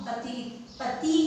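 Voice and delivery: पति said slowly and carefully, short i; slow model pronunciation. Shown as a demonstration. Teacher to pupils, slowly modelling पति. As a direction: spell out पति syllable by syllable. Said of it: "तब पे कौन सी मात्रा आएगी?".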